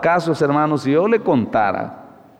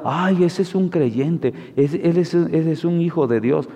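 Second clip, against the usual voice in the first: mock naive believer. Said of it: "usted de inocente diga". (imitando a un ingenuo, con burla lenta)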